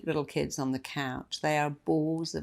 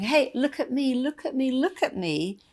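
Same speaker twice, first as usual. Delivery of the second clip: put-on high child voice calling out; kid showing off; 8 semitones higher than usual. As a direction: beg for attention like a kid. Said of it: "notice all the kids going".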